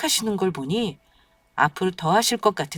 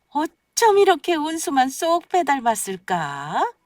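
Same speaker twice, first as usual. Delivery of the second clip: cooing delight; 8 semitones higher than usual. Acted. Grandmother coos over newborn.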